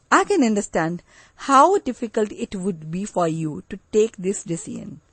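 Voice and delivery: gentle, empathetic, fading softly at the end. Shown as a demonstration. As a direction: soothe a worried patient's family. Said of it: "This is softer fo-, tone to clarify empathy".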